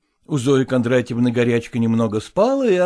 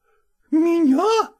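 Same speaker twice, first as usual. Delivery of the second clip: high, slow indignant question; outraged disbelief; 5 dB louder, much slower than usual. A narrator's reading. Zoya told she won't be let in, outraged. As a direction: leap at him in outrage. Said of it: "подскочила к нему".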